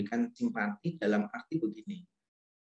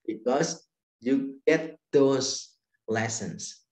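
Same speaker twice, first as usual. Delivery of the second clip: gentle; 4 dB louder, much slower than usual. Retold or imitated.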